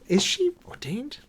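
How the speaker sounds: a sly whispered aside. Real, not acted. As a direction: lean in and whisper the question.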